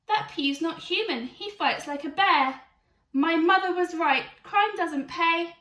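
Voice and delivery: loud, high wailing complaint; loud high whining protest, slowing at the end; panicked shouting. Acted. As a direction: cry it out as he loses. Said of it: "shouted Billy".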